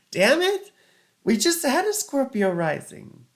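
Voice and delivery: high, loud exasperated cry; frustrated outburst. Real, not acted. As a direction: blurt it out in frustration. Same rising sign again.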